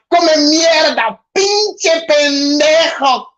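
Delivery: mock Spanish cursing. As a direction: play an angry man cursing someone out in Spanish. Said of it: "Hispanic people like, um, cursing each other out?".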